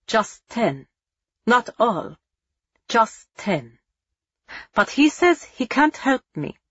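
lightly voiced German officer, menacing; a hint of a cold interrogating captain.

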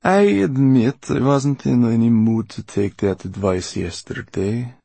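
put-on old villainess in a character voice; menacing old Mortola. A narrator's reading. Mortola to prisoners she wished dead, menacing. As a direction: coolly threaten the prisoners as the old woman.

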